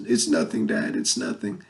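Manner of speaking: low, husky imitation of a brave-faced boy; trying to be brave. Son hiding his hurt from dad, trying to be brave. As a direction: retell the boy's denial, dropping low and fading. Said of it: "they're trying to be brave".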